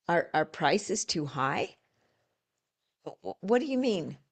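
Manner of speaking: curious echo. Shown as a demonstration. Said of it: "feed it back to 'em".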